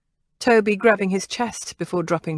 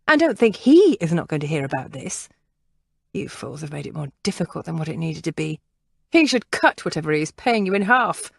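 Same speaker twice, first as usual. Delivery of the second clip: scolding. Acted. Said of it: "her scolding".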